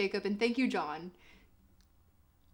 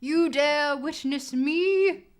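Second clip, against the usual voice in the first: theatrical outrage; 3 semitones higher, 9 dB louder than usual. Pretend. Streamer scolding the game like an offended noble, hammed up. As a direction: play a wounded noble taking offense.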